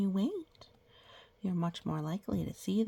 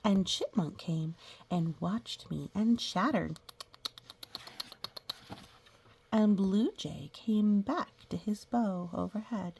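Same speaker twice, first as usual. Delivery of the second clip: put-on reading to children. Teacher reading a picture book to the class, storybook voice. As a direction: read it like a picture book for little kids.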